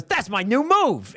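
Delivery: high, stretched-out wrestler brag; Diamond Dallas Page. Acted. Wrestler answering the crowd about his move, hyped and slow. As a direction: draw it out proudly in a promo voice. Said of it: "And he goes".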